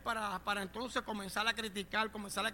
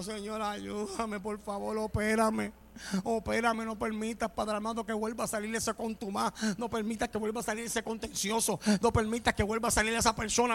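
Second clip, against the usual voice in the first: imitated tearful plea; 4 dB louder than usual. Preacher begging God to operate on him, imitated tearful pleading. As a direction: plead with God as if crying, no real sobs. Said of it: "termino llorando".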